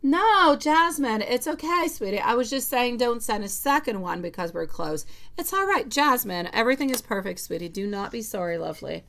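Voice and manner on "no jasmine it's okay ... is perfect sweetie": high, loud and eager, brushing off the apology; bright rush of reassurance, much higher and louder. Real, not acted. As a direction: cheerfully insist it's all fine, much higher and louder.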